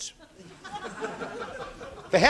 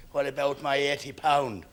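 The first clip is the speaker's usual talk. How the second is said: lightly voiced creditor, low and soft; low, dogged interruption from the floor; persistent grumbling creditor; 6 semitones lower, 4 dB quieter than usual. Heckler repeats his complaint.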